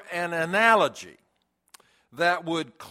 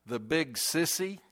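put-on shaky little boy; 6 dB quieter than usual. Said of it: "his shaky little voice".

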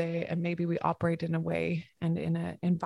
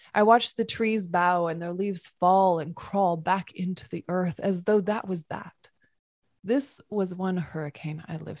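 poem reading. Acted. Reads a Mary Oliver poem.

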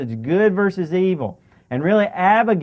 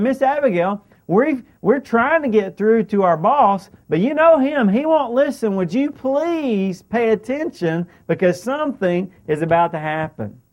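higher-pitched, earnest retold appeal; urgent plea; 4 semitones higher than usual. Servant begging Abigail to pay attention, pleading. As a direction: plead on a raised pitch, stretching the final request.

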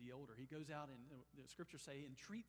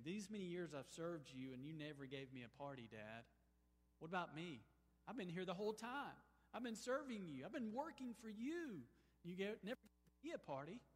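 put-on aggrieved older son; 2 semitones higher than usual. Older son's complaint paraphrased.

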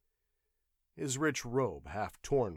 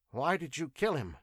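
nervous question; 6 semitones higher than usual. Acted. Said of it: "asked Arus nervously".

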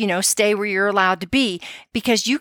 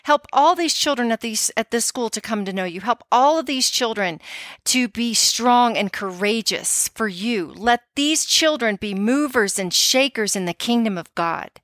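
prayer. Shown as a demonstration. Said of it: "door frames in their schoolrooms and say".

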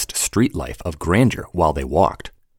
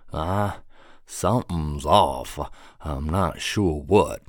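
slow thoughtful man; 2 semitones lower, slower than usual. Acted. Kevin ponders.

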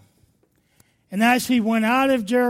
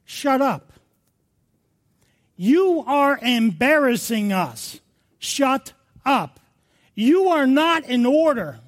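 scolding crowd; 3 semitones higher, slower than usual. Acted. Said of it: "the people are saying to".

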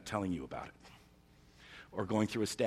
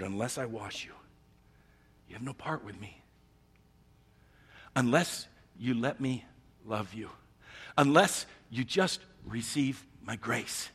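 gentle Jesus. Retold or imitated. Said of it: "And Jesus answered".

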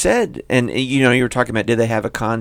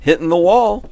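laughing; 9 semitones higher, 7 dB louder than usual. Real, not acted. Laughing through bloopers.

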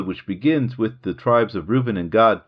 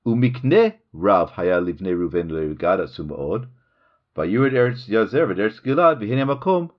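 reading scripture aloud. Shown as a demonstration. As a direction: read the verse out so each word is savoured. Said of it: "I'll read it in Hebrew so you get to appreciate it".

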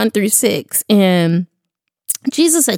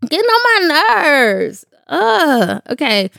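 higher, near-crying irritation; tearful frustration; 4 semitones higher than usual. Real, not acted. Vlogger to her viewers while her voice keeps failing, tearful and fed up. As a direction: fight back real tears of annoyance.

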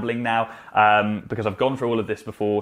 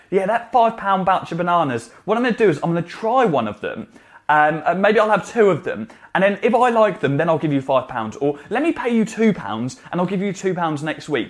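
mock haggling customer; 5 semitones higher than usual. Mock customer haggling over bananas.

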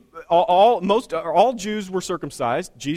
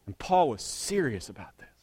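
whisper; 6 semitones lower, 6 dB quieter than usual. Real, not acted. Sermon point, dropped to whisper.

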